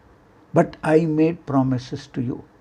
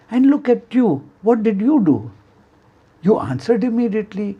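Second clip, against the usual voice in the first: mock them as the devil would; scornful taunt; 5 semitones higher, faster than usual. Shaitan taunting the people.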